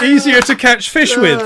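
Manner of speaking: "easier to catch fish with" as a hammed-up bear, unhurried; polar bear. Comedian delivers the polar bear's punchline in a mock bear voice. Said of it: "said the bear".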